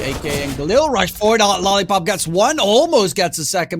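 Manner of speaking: quick live play-by-play call; esports caster. Acted. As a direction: keep the round moving, hyped. Casting next round live.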